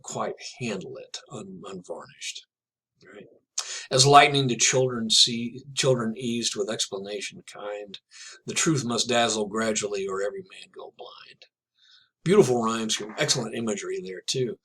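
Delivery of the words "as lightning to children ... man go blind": measured verse reading; poem reading. Acted. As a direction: read the stanza as verse. Rereads the poem's stanza.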